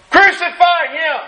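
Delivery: high-pitched mock yell from the crowd. A crowd member demanding Pilate crucify him, high mock yell. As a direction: cry it out like one voice in a mob. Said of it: "someone yells".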